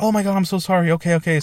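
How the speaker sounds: a hint of flustered medic; retold flustered apology. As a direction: lightly mimic a hurried sorry. Voices medics apologising to him.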